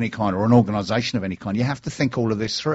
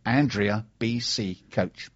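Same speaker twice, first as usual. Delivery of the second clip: slow repeat; much slower than usual. Shown as a demonstration. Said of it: "Her Twitter handle is".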